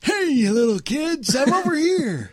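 lightly hammed-up old woman calling out; mock old lady. Lonely old woman hailing kids, mock calling voice. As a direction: call to the children in playful mock old age.

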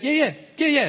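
high, chirpy back-and-forth catchphrase; shared catchphrase. Retold or imitated. Coworkers echoing each other's habit, imitated catchphrase. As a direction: imitate two coworkers' quick verbal habit. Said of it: "we always, like, say this".

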